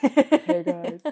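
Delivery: a touch of a man's very low voice; low-voiced hurdler impression. Teasing cohost mimicking the hurdler, lightly low voice. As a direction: lightly imitate his low voice. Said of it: "He has an incredibly low voice".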